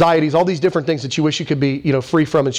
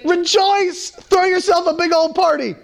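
high, bright mock party call; playful Paul; 12 semitones higher than usual. Paul in jail urging believers to celebrate, high and playful. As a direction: pitch soars as Paul urges a party. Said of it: "if Paul from jail can say".

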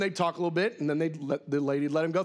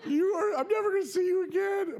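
hammed-up despairing wail; mock wailing mom; 10 semitones higher than usual. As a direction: imitate a distraught mother wailing goodbye, high-pitched. Retold mother's tearful goodbye at airport.

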